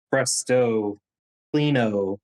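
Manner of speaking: a playful wizard's "Presto, cleano" with a snap; mock magic incantation. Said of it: "snaps his finger and says".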